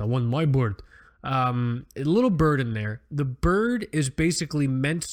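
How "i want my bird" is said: mock Russian accent. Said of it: "a really weird Russian accent".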